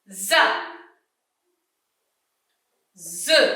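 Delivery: each syllable said alone with long pauses for the class to repeat; read-along syllables. Shown as a demonstration. Teacher leading pupils reading along with her, slow drill. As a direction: pace it out for the pupils to echo. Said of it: "vous allez lire en même temps que la maîtresse".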